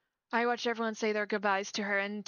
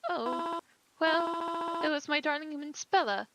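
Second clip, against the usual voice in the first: higher, gentle voice of a bereaved mother; a mother startled at her daughter's funeral; grieving mother; 5 semitones higher, slower than usual. Acted. Grieving mother greets a stranger at the funeral, gently.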